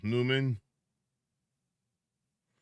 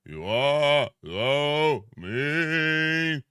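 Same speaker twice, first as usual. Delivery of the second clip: slow mock scold; much slower than usual. Teasing Grinch.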